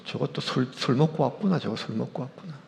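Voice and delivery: a lightly voiced disapproving old priest; muttering priest Eli. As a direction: mutter it under your breath as Eli watching. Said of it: "지켜보던 엘리 제사장이".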